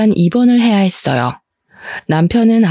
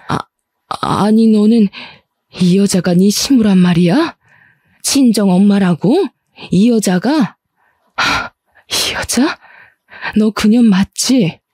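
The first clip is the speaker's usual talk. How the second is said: stunned confrontation. Acted. Mother confronts in-law.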